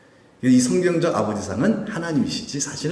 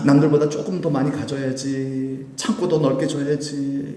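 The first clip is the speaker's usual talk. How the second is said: drawn-out anxious self-talk, lightly acted; mock fretting. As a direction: imitate someone forever worrying about having more. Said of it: "이렇게 늘 근심하며 살아가는". (근심하는 사람 흉내)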